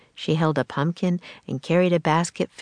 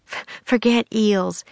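stammering through chattering teeth; 4 semitones higher than usual. Acted. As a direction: shiver it out, cold and soaked. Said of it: "her teeth chattering".

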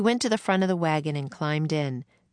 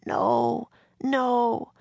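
put-on high, anxious boy's protest; frantic; 7 semitones higher than usual. A narrator's reading. Feverish drummer boy to Annie, frantic. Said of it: "He sounded frantic".

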